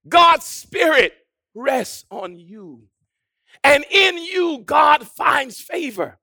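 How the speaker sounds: measured proclamation rising to full force; ringing sermon declaration; emphatic preaching. Acted. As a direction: press each assurance home. Preaches the affirmation.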